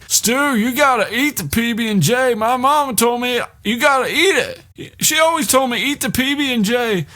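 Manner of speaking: high, sing-song coaxing character voice; hammed-up Tom voice. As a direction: beg him to eat like a simple, earnest kid. Tom voiced pleading with Stu.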